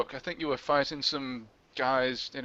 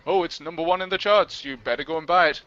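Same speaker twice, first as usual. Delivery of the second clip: mock advert voice; 4 dB louder than usual. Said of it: "the magazine said".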